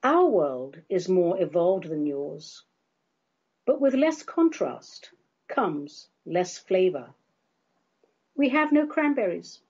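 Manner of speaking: slow, measured poetry recital; poem reading. Acted. Reading her comic poem to the audience, slow and solemn. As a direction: recite it slowly like a serious poem.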